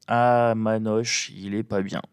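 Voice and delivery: morning voice; croaky just-woken voice; vocal fry. Real, not acted. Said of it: "j'ai ma voix du matin".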